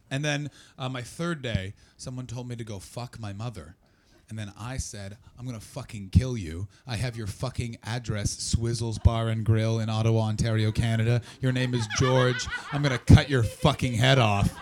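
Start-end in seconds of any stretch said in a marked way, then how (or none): 5.4-14.5 mock furious threat. Threatening rude customer on phone.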